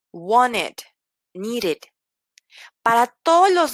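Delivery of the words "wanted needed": "Wanted, needed" with a full second syllable -ed; -ed as written. Shown as a demonstration. Teacher repeating examples after T or D, -ed fully pronounced. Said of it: "lo voy a leer así como lo veo".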